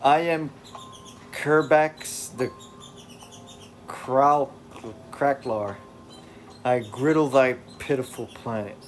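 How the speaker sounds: grandiose villain. Acted. Kerbax boasting to the planet, grandly hammed up. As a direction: announce yourself like a comic supervillain.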